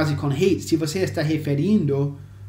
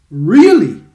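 sharply louder Really with a falling end; surprised Really; 3 semitones higher, 12 dB louder than usual. Acted. Friend reacts with surprise to the new movie. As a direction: sound genuinely surprised by the news. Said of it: "And I say".

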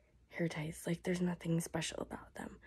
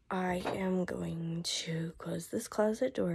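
voice giving out; 3 dB louder, slower than usual. Real, not acted. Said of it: "my voice is about shot".

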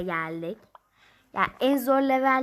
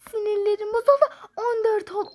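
laughing exasperation; 9 semitones higher, 4 dB louder, faster than usual. Real, not acted. Frustrated, laughs while saying it.

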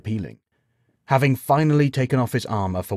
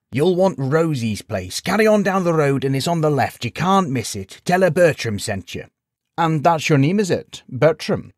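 put-on old man voice; 7 semitones higher, 4 dB louder than usual. A narrator's reading. Old man and knight exchange.

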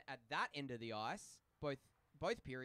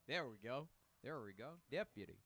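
bad Western deputy voice, pitched lower; cowboy; 3 semitones lower than usual. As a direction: have a go at a cowboy accent. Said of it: "like a cowboy".

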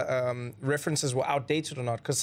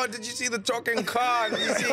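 mock excited gossip; 8 semitones higher than usual. Mocking excited viewers.

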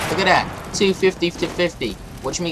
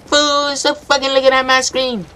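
indignant accusation; 5 semitones higher than usual. Acted. Accusing rival of screen cheating.

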